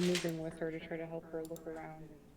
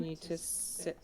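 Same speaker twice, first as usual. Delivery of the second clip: put-on stern mom telling kid to sit; firm parental order; 4 dB quieter, slower than usual. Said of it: "That was my mom voice".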